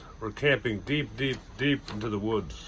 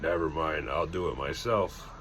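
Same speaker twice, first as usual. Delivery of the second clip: disappointed; 6 semitones lower, 3 dB quieter than usual. A narrator's reading. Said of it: "looked very disappointed".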